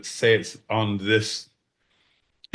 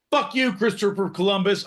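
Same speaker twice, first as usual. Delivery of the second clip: high, hammed-up chief voice; lightly put-on native elder; mock indigenous voice; 10 semitones higher than usual. To Christopher Columbus, a mock indigenous voice. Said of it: "I can do the voice".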